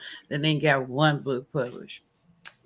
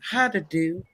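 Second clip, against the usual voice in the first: Southern voice. Pretend. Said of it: "in my Southern voice".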